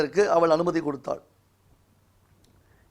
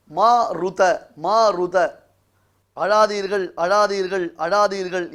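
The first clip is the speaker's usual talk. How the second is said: firm, repeated urging, a little raised; insistent command; 4 dB louder, slower than usual. Acted. Indra tells the crying embryo to stop, insistent command. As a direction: press each repeated command home, mildly acted.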